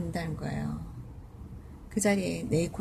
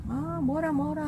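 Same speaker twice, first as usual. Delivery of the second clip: loud grumbling; 8 semitones higher, slower than usual. Retold or imitated. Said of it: "목소리도 크니까".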